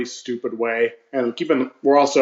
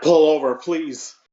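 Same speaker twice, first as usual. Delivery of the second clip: put-on screaming, higher pitched; 3 semitones higher than usual. Retelling cutting a finger in the back seat: imitating own screaming. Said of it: "started screaming".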